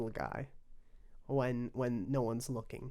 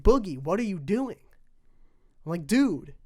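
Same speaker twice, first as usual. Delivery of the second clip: louder, higher imitation of calling out Boogie; hammed-up call of alarm; mock protest; 5 semitones higher, 9 dB louder than usual. Retelling calling out to Boogie, a loud mock protest.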